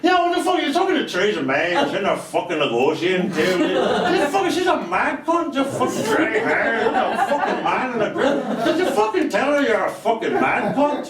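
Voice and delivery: fast, brash heckling question; rowdy heckler. Acted. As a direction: fire it off like a drunk heckler. Heckler in a press conference.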